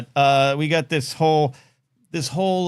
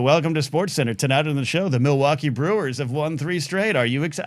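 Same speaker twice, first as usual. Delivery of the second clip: sports announcer. Shown as a demonstration. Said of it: "fun to broadcast".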